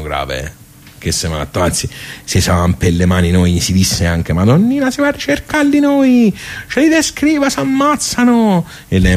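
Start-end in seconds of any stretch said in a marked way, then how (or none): 4.3-8.7 high, heated and indignant, slowing on the last word; fired up, ready to go after them; indignant outburst. Retold or imitated. Men of the village offering Madonnina revenge, heated and high.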